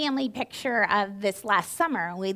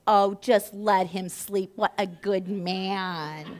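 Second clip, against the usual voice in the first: retold doting sympathy; slower than usual. Nurse's attitude flips to sympathy.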